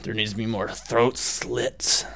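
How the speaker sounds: lightly mocking gore-hungry viewer. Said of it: "people who have not read the book probably think".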